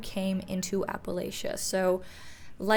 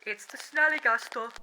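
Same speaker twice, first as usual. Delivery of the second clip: hammed-up British moonshiner, slightly raised; bad British accent; 5 semitones higher than usual. Moonshiner covering up noises in the forest, bad British accent. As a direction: put on a clumsy British accent. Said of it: "bad British accent".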